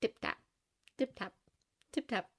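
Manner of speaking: soft, spaced-out "tip-tap"; footstep sounds. A narrator's reading. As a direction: imitate approaching footsteps softly. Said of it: "the sound of footsteps approaching".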